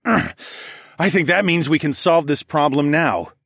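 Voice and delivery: slow, loud, lifted announcement; loud proclamation. A narrator's reading. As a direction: proclaim it to the crowd. Hero announces execution.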